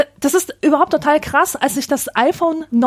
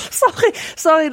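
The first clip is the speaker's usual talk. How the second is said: laughing; 4 semitones higher than usual. Real, not acted. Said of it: "ich muss grad so lachen".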